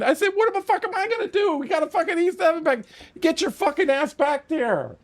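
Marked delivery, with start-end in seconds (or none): 0.3-2.8 high-pitched, indignant comeback; acted-out exasperated objection; retold protest. Retold protest to the pilot's order. 3.2-5.0 high, drawn-out command; imitating an impatient pilot; retold order.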